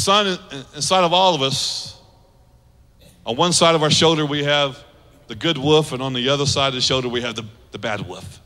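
put-on Native American chief accent. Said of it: "I just think an accent makes it a little better".

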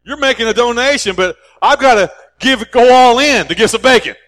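outraged pig voice swelling to the punchline; indignant pig. Acted. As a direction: pig protests the bacon donation, indignant and loud. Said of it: "And the pig said".

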